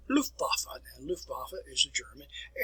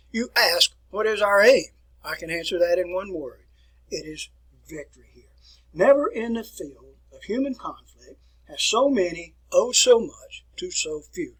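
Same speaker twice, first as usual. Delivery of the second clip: Churchill quotation; 4 dB louder than usual. Retold or imitated. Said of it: "one of his quotations was".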